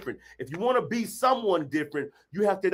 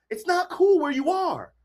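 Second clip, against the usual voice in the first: firm statement; 9 semitones higher than usual. Real, not acted. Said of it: "repeated, louder".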